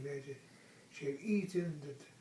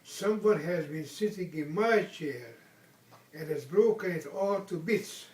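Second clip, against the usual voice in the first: louder upset little bear; Baby Bear's wee little voice; 7 dB louder than usual. Acted. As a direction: complain like a small bear whose chair broke. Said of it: "his wee little voice".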